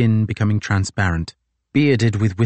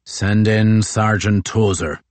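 slow, raised call to the door; loud call; slower than usual. Acted. Crozier calling to the guard, slow raised order. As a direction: call the guard outside the tent. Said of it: "In a loud voice, shouting to Private Daly".

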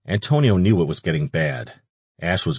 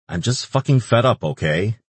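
frustrated outburst; 5 semitones higher than usual. Acted. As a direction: vent the frustration.

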